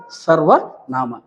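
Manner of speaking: very slow, drawn-out syllables; slow teacherly enunciation of ಸರ್ವನಾಮ; drilling a term. Shown as a demonstration. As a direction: stretch out ಸರ್ವನಾಮ for the class to catch.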